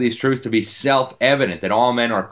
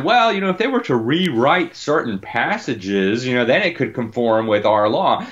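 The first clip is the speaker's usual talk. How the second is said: mock Swedish officials; 3 semitones higher than usual. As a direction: lightly parody a smug bureaucrat offering a fix. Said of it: "And they said".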